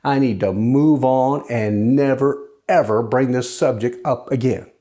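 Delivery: sarcastic. Retold or imitated. Typed reply to an online critic, sarcastic. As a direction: concede everything sarcastically, drawing it out. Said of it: "kind of being sarcastic".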